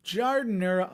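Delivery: giardiniera said the Chicago way; Chicago accent. Shown as a demonstration. Talking up a Chicago food, Chicago accent. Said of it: "you gotta say it like that".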